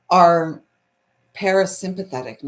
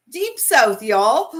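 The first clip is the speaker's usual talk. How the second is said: mock Southern; 4 semitones higher, 5 dB louder, slower than usual. Playful Southern take on the region.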